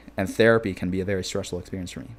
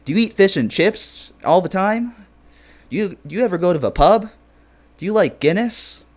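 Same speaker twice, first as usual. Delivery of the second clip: mock eager fan; 8 semitones higher, 7 dB louder than usual. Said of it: "I'm like".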